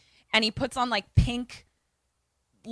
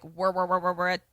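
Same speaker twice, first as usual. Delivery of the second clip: run-together rolling motor noise; machine whirring; 3 semitones lower than usual. Retold or imitated. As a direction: imitate a toaster machine at work. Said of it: "the toaster is like".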